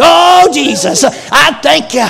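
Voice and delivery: loud thanks to Jesus. Real, not acted. Preacher's praise outburst.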